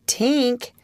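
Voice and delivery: pleasant call, pitch lifted; lightly amiable character voice. A narrator's reading. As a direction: call the name in a friendly way. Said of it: "said Peter amiably".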